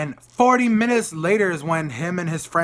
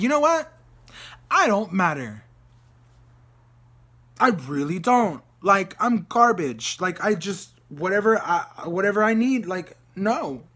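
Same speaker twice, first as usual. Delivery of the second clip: high, exasperated sarcasm; retold bitter mock surrender; sarcastic self-pity; 4 semitones higher, 3 dB louder than usual. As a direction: play the wronged one, dragging key words. Retold upset, sarcastic self-pitying rant.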